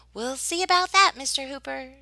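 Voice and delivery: sugar-coat the answer; Mama answering Hooper with a syrupy tone; sweetly. Acted. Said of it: "she said sweetly".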